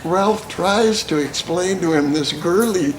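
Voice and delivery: high, loud, cracking up; fighting through the laughter; real laughter during the war story; laughing while telling. Real, not acted. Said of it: "he's laughing so goddamn much".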